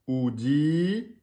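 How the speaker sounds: drawn-out Arabic syllables oudi; syllable demo. Shown as a demonstration. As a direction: sound out Oudi slowly as a reading demo. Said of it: "on a bien oudi".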